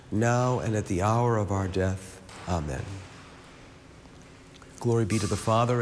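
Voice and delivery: measured, rhythmic prayer cadence; praying aloud, each Amen dropping away; rosary recitation. Real, not acted. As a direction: recite familiar prayers in an even, practised rhythm.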